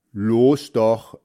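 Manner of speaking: loud, urging shout; calling out. A narrator's reading. Heinz urging his hesitant friend into the ditch, calling out. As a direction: egg a friend on loudly. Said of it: "rief Heinz".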